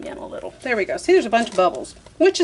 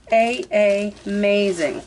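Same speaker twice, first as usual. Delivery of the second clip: drawn-out awe; much slower than usual. Real, not acted. Admiring her spun paint colors.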